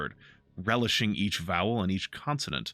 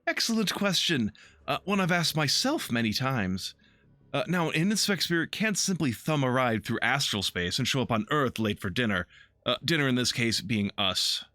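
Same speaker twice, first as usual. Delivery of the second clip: lightly voiced theatrical elf; 4 semitones higher than usual. Harlequin keeps talking.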